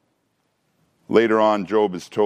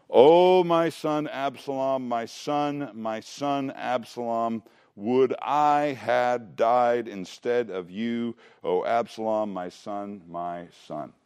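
grieving lament; slower than usual. Acted. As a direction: lament a lost son slowly, letting the voice sink away. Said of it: "the gate and wept".

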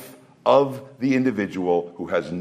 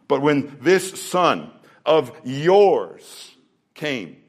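put-on indignant older son; 4 semitones higher than usual. Preacher voicing the indignant older son.

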